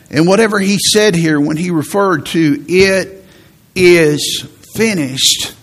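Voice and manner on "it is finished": slow, emphatic declaration, each word set apart; measured, mildly triumphant quote; cry of victory. Retold or imitated. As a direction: proclaim it as a victory, drawn out word by word. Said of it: "because it was a cry".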